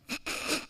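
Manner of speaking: short, voiceless stifled cackle; imitated hysterical laugh. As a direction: mimic someone helpless with laughter. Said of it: "like, laughing hysterically".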